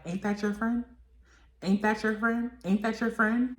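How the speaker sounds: mock taunting. Razor taunting in a rapper's face.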